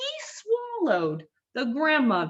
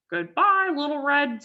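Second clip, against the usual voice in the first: high, loud sing-song goodbye; calling out; 6 semitones higher, 3 dB louder than usual. Acted. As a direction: call after her sweetly. Wolf calls after her.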